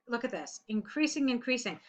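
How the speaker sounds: "increasing" said twice, pointedly; teacher flagging a repeated word; pointing out repetition. Shown as a demonstration. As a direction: repeat "increasing" to show it is overused. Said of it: "You need to vary your language".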